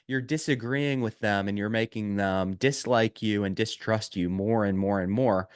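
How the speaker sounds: ordinary delivery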